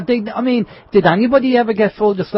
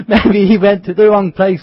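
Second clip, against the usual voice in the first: laughing; 4 dB louder than usual. Real, not acted. Laughing at the story.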